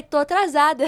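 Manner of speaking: laughing through a self-quote; half-laughing at her own panic. Retold or imitated. Young speaker laughing as she recalls feeling late.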